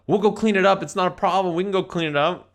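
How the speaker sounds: put-on high, eager kid voices; kids giving in. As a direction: pipe up quickly as kids offering to fix it. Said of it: "they're like".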